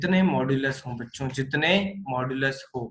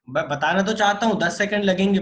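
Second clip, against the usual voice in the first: emphatic protest; 5 semitones higher, 6 dB louder than usual. Real, not acted. Teacher stresses time needed.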